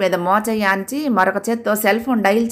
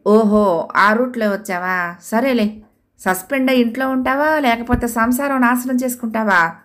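higher, mocking menace building to a threat; threatening; 4 semitones higher than usual. Wife threatening the clerk over the phone, mocking menace. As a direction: taunt him then threaten him. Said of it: "బెదిరించింది".

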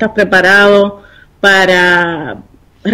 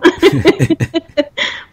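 a soft higher laugh, trailing up; light high giggle; 8 semitones higher, 4 dB quieter than usual. Real, not acted. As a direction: giggle it away. Laughs about her accent. (risita aguda y suave)

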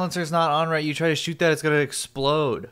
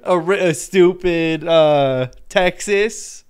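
amused repeat; 3 semitones higher, 5 dB louder, slower than usual. Retold or imitated. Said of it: "That's awesome".

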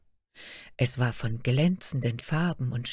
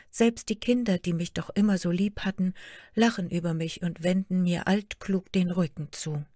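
put-on lightly raised, plaintive young girl's voice; a hurt daughter pouring out her sorrows; young princess Märchen; 4 semitones higher than usual. Daughter complains to her queen mother, lightly plaintive girl voice.

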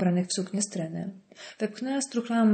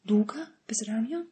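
incredulous whisper; 3 semitones higher, 3 dB quieter than usual. Acted. Michalina hisses in disbelief.

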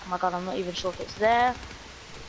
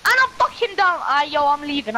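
real angry shout, much higher and louder; raging yell; 3 semitones higher, 5 dB louder than usual. Real, not acted. Downed gamer yelling at the game, real raging yell. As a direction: blow up, then storm off. Gamer goes down mid-match.

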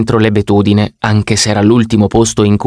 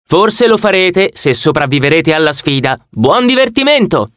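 through a megaphone; 5 semitones higher than usual. Acted. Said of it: "mi puntò il megafono in faccia".

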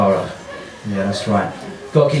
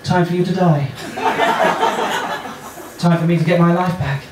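mock mother; 3 semitones higher than usual. Mum frying onions answers her small child, mock mother. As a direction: answer as a mum, slightly raised pitch.

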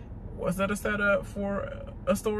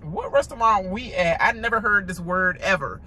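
mock confusion; 2 semitones higher than usual. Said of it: "I be like".

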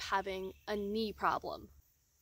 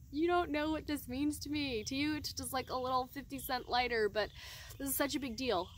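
higher, gushing thanks, almost laughing; 5 semitones higher than usual. Retold or imitated. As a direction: pour out your gratitude to the stranger. Effusive thanks to the hiker.

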